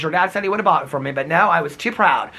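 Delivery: a touch of his mother's voice; imitating mom. Son imitates his mom about the car dying. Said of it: "This is how my mom would talk".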